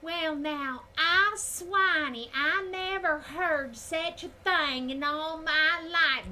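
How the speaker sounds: high, loud, very slow fake Southern belle drawl. Streamer mocks a fake game Southern accent, hammed-up belle. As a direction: ham up a phony genteel Southern lady. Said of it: "What we don't sound like is".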